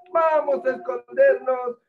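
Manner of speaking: loud, high calling out, last word drawn out; angry worm's call. A narrator's reading. Worm urging pond animals to hide from mosquitoes, angry shouting. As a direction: call the others away as a cross worm. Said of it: "muy enojado".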